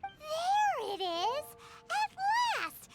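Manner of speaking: slow, drawn-out mock cheer; mock triumph. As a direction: gloat over catching him out. Paimon mocking Kaya's modesty.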